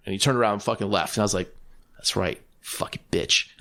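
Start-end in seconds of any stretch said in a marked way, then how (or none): 2.0-3.5 softer, muttered retold jab; quiet retold aside after he leaves; under the breath. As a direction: toss it off under your breath.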